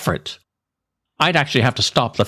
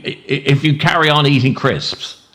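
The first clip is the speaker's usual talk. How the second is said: laughing through it; 2 semitones higher than usual. Real, not acted. Giggling while lecturing.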